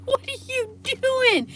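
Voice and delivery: very high, drawn-out reenacted cry; screamed retort. Bystander challenging dog owner mid-fight, reenacted high, slow scream. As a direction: shriek it slowly in disbelief.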